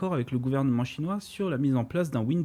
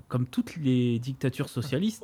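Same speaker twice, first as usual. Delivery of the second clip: deadpan irony. Acted.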